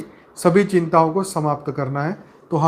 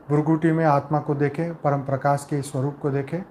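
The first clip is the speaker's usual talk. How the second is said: calm, measured meditation voice with long pauses between phrases; guided meditation; 2 semitones lower than usual. Acted. Leader guiding souls with eyes closed into peace, calm meditative delivery.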